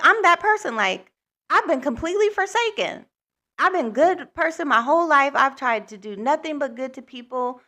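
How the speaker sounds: high, distraught outpouring of despair; losing it after being turned away from the shelter; near-tears despair, pitched high; retold despair. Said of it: "I was just losing it".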